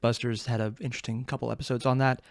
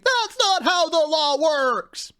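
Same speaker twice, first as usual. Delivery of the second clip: high, drawn-out outraged scream; hammed-up high-pitched protest scream; 13 semitones higher, much slower than usual. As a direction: scream it slowly at a broken courtroom game. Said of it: "standing there screaming".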